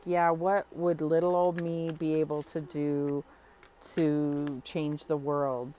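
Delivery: a hint of modest self-doubt; doubting viewer. The viewer doubting herself, mild mock doubt. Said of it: "and you may think".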